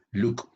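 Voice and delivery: "look" as Luke; "look" with long oo. Shown as a demonstration. Teacher showing learners what not to say, "look" as Luke. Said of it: "esto yo no digo look".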